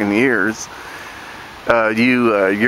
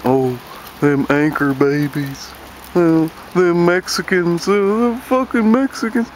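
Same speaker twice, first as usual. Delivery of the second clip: sneering mock bigot, rising higher; mocking redneck; 4 semitones higher than usual. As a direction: parody a whiny redneck complaint. Mocking anti-immigrant rednecks.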